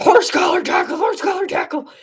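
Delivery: very high, demanding sports-fan voice, pitched way up. Recapping a tackle with no flag, the speaker mimics Eagles fans: imitating an Eagles fan. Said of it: "that's my impression of an Eagles fan".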